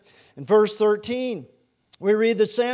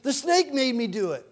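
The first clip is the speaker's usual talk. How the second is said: higher-pitched whiny excuse; mock protest; 5 semitones higher than usual. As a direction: insist on innocence, pitch jumping up. Eve acted blaming the snake.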